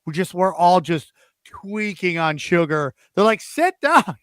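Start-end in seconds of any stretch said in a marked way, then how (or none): 3.4-4.2 high, loud teacher order; stern teacher. Retold or imitated. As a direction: bark it like a fed-up teacher. Teacher scolding sugared-up kids.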